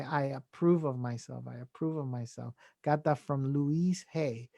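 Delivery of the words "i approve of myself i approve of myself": quiet; affirmation demo. Shown as a demonstration. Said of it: "that's a phrase that I say".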